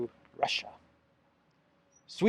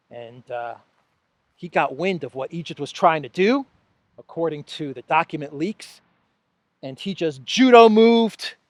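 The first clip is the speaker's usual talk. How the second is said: mock praise; 3 dB louder than usual. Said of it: "I'm just playing, everybody".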